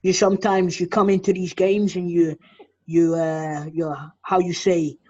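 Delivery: mock Dutch accent. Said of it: "speaking in a Dutch accent".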